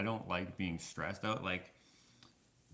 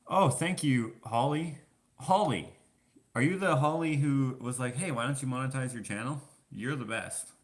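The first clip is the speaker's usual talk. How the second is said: high, loud, excited greeting; delighted thanks; 6 semitones higher, 8 dB louder than usual. Real, not acted. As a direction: burst out in grateful recognition. Delighted at recognizing a supporter.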